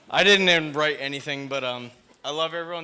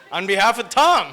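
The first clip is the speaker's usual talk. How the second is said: louder, laughing through the words; laughing toast; 5 semitones higher, 10 dB louder than usual. Real, not acted. Brother closes his speech for Tom, laughing.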